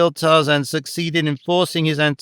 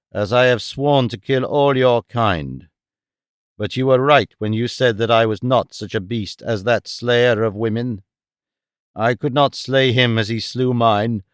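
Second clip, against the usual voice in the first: lower, grave ape-man explaining; a measured, sober decision; a hint of a brooding Tarzan; solemn Tarzan; 3 semitones lower than usual.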